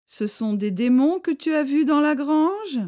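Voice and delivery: a villager catching him running; Mesto's call. A narrator's reading.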